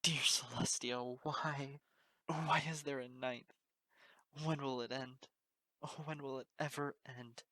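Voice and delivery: slow, high, loud lament; anguished wail. Acted. Unicorn face down in the grass, anguished loud wail. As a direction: cry out to the sky in despair. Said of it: "My anguished voice".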